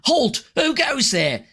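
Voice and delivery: high-pitched challenge from a guard; city guard. Acted. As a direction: call out like a guard at the gate. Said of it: "which is a guard".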